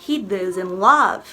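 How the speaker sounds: He doesn't love spoken very slowly, each word laid out; slow modelling. Shown as a demonstration. Teacher modelling English for Brazilian students, slow and careful. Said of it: "teacher modelling English sentence".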